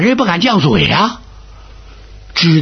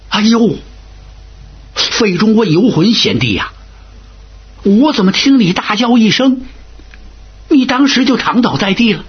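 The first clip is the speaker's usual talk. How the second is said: higher, uneasy questioning voice; anxious official's question; 4 semitones higher than usual. Acted. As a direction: ask like a shaken courtier still trembling. Fei Zhong quizzes terrified You Hun.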